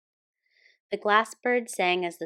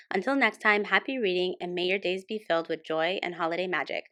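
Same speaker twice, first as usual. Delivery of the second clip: fast, upbeat sign-off read; quick friendly YouTube outro; channel outro; faster than usual. Real, not acted. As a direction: wrap up the video cheerfully and briskly. Channel outro after story.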